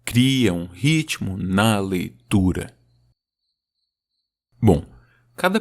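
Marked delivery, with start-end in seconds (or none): 0.0-2.7 "Cria um ritmo na leitura" slow, with stress on "ritmo"; slow metric reading; scanned rhythm. Shown as a demonstration. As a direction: read it slowly beat by beat. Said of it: "as sílabas tão se alternando".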